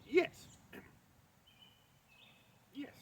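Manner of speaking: high simpering maid's voice; falsetto maid. Acted. Loki in disguise presents the bride to Thrym in falsetto. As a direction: keep the high fawning disguise voice.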